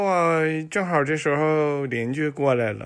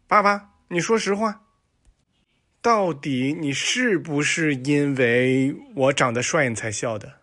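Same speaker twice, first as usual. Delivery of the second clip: cocky son. Acted. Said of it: "问他爸".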